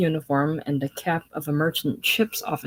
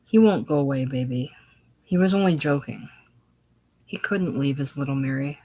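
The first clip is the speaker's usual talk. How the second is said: determined; 3 semitones lower than usual. Acted. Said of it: "with fierce determination".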